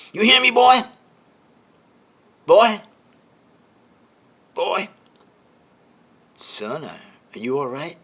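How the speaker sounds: from high bellow down to normal talk; yelling that diminishes. Retold or imitated. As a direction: start shouting, fade step by step into concern. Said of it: "his yelling starts to diminish".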